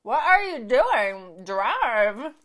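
loud, slow exasperated yell; half-yelled at a bad driver; slow mock shout of disbelief. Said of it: "and I'm like".

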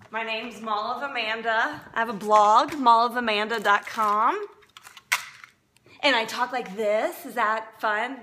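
loud, bubbly show-host delivery, a bit hammed up; mock TV host voice. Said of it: "stop talking like that".

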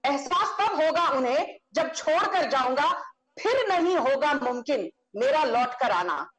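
recited Hindi couplets, each line repeated; poetic recitation. Shown as a demonstration. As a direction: declaim the verse with flourish. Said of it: "you've thrown a poetic punch".

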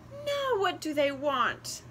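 high, sharp and impatient; impatient little bird. A narrator's reading. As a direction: bite it off, fed up with asking. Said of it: "the wren asked impatiently".

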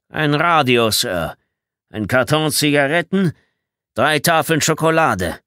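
high, loud listing; indignant itemised report. Acted. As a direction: list each item emphatically to a superior. Bedford lists stolen items to commander.

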